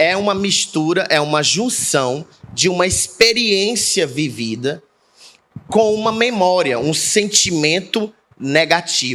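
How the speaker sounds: slow, unhurried, deliberate delivery. Explaining to the listener, slowing down so they understand, speaking slowly. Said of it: "estou falando devagar e repetindo".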